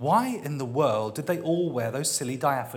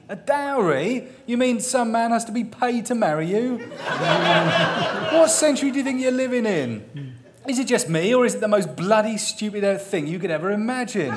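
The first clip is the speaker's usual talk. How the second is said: incredulous; 7 semitones higher, 5 dB louder than usual. Acted. Vimes incredulous rant.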